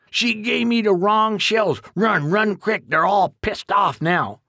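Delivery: put-on panicked old handyman; alarmed country codger. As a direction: urge him to run before the wasps come. Duke panics after shot.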